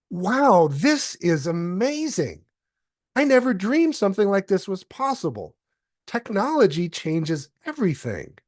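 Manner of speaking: bright, wondering delivery of a sample script; enthusiastic demo read. Shown as a demonstration. Recording a sample line to show off speech to speech, with eager wonder. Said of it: "really get a nuanced performance in someone else's voice".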